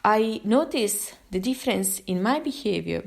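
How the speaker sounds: usual speaking voice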